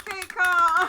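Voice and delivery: mock announcement. Announcing the topic like a jingle.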